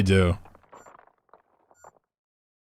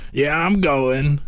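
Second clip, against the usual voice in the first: game unit voice; 5 semitones higher, slower than usual. Acted. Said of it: "practice my StarCraft voice lines".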